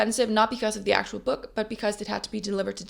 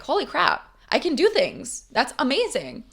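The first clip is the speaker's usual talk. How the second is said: excited surprise; 5 semitones higher than usual. Retold or imitated. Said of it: "you're like".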